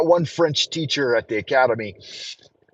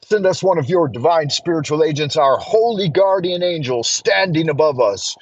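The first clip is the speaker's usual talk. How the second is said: solemn invocation read; prayer. Acted. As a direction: pray it out with reverence. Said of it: "join me for a moment of prayer".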